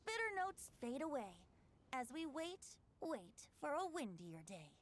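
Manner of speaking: lilting poem recital; gentle, sing-song poem reading; recited rhyme. Acted. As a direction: recite it like a bard to a friend. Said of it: "Shall I recite it for you?".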